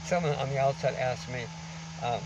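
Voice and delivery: muffled behind a mask; through a face mask. Real, not acted. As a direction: speak through a covering mask. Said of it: "excuse the mask we're covering".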